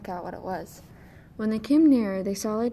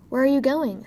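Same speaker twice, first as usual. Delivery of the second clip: calling out; 4 semitones higher, 9 dB louder than usual. Acted. Rose Red calls to the dwarf.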